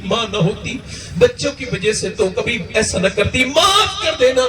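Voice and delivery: a hint of sobbing pleading to God; half-choked plea for forgiveness; tearful prayer. Hungry children's mother begging God's forgiveness, tearful.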